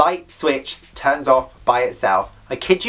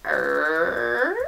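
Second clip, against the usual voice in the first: creaky door imitation; 5 dB quieter than usual. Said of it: "this door just went".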